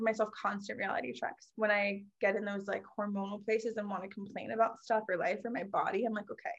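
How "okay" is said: reassuring self-talk. Retold or imitated.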